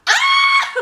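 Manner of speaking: sudden high laughing shriek; delighted shriek. Retold or imitated. Reader slamming the book shut, laughing shriek. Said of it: "Like that".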